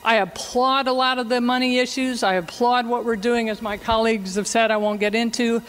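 faint voice far from the mic; quiet speech under loud hiss. Real, not acted. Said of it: "not holding the mic very close".

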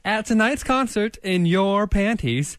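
animated mock diary reading; diary read-aloud. Reads Mad Lib diary aloud.

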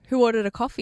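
imitating a polite receptionist calling out. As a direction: lift it a notch for the room. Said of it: "she raises her voice a little bit more".

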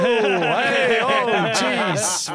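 loud startled cries; startled exclamations. Real, not acted. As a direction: react in shock to the noise. Reacting to loud volume.

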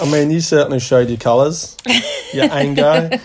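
talking through a laugh; chuckling while teasing. Real, not acted. Teasing partner after emotional message.

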